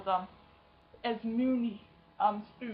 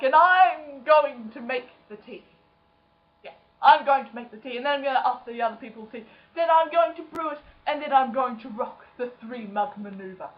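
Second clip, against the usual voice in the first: cheerful Hufflepuff; 3 semitones higher, 6 dB louder than usual. Retold or imitated. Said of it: "Hufflepuff, and they're like".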